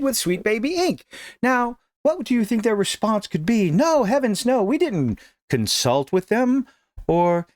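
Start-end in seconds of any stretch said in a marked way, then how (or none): 3.7-6.7 high, slow mocking voice of a flustered developer; mock innocent protest, pitched up; mocking fake denial. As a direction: play the guilty developer protesting too much.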